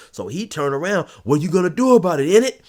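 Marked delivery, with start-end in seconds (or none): 1.2-2.6 mock challenge. Knife guy challenging narrator.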